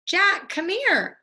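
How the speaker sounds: high, loud, slow call. Acted. Annie calls Jack down into the valley, high slow call. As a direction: call him over from down the hill. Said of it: "Annie called".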